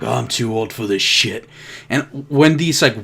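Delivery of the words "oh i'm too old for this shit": mildly world-weary imitation; weary attitude. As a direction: act a touch too old to bother. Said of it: "he has this attitude of".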